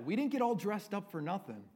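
put-on high-pitched Irish accent for the fighter's quip. Irishman right before the battle, in an Irish accent. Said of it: "I'll give you my Irish accent here".

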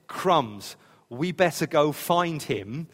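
a hint of panic, slow; mock worried parent. Mary and Joseph to each other, mock worry. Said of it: "when they said".

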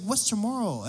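puzzled guest. Retold or imitated. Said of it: "she's like".

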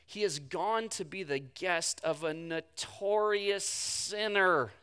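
slow, disapproving grumble; grumbling. Acted. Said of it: "they grumbled".

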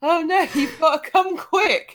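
high, breathless alarm calling for help; urgent excited call. Retold or imitated. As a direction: cry out for him to come quick. Phoebe rushing in urgently.

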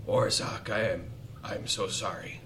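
hushed, halting in-character apology; whispered apology. Acted. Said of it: "And I just whisper".

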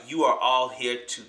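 slow, mock Russian accent; lightly hammed-up Russian accent. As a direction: imitate a drawn-out Russian accent. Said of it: "killing me with this Russian accent".

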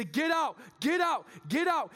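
screaming at the crowd to leave; retold scream. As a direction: yell them out of the temple. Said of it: "He's screaming as loud as he can".

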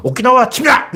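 high, mock invasion command; acted commander's proclamation; shogunate war order. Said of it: "막부가".

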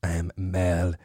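whispered, faint and feeble; weak whisper. Acted. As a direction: sound like you might collapse. Whining about being malnourished.

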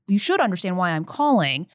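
ordinary delivery

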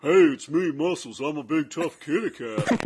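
lightly voiced tough cat; a big tough kitty, barely changed; a hint of a tough-guy cat voice; voice for Muscles the cat. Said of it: "what is your voice for Muscles like".

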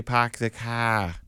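dropped R's, Boston-style "park the car"; Boston accent. Retold or imitated. Someone teasing a local, Boston accent on "park the car". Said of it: "you don't have a funny accent".

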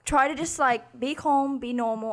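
put-on British accent in casual chat. Podcast host announces she will talk British, put-on British accent. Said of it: "talk in a British accent".

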